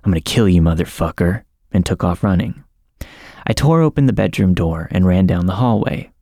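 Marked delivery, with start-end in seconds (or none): 0.0-1.4 a hint of a tough-guy threat, barely growled; lightly growled macho threat; husband jumping out of bed at an intruder, mild mock growl; mock manly growl. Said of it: "I growled in the manliest voice that I could muster".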